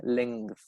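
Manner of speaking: "length" with the final th sounded; pronunciation demo. Shown as a demonstration. Teacher shows students how length is pronounced, careful final th. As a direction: say "length" slowly and softly, ending on its th. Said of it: "Con ese sonido al final".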